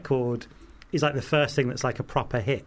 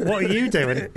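laughing incredulous; 7 semitones higher, 5 dB louder than usual. Retold or imitated. Johnny Vegas quote, laughing.

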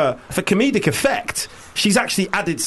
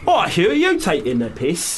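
put-on failed Cockney accent. Host trying the show's catchphrase, badly put-on Cockney accent. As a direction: wobbly attempt at Cockney. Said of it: "No, I can't do accents".

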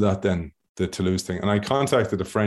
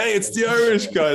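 mocking mate; 13 semitones higher than usual. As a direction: tease like a laddish mate. Imagining agent's mates joking.

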